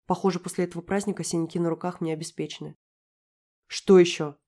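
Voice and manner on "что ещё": резко и громко, со злостью; огрызнись сердито; зло. A narrator's reading. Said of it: "зло спросила я". (зло огрызнуться)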